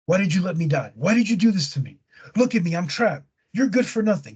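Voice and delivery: mock reproachful wife, pitch climbing; turning on him. Dead wife blames her husband for her death, mock accusing. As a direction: hurl the blame in a lightly acted, rising voice. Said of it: "And starts turning on her".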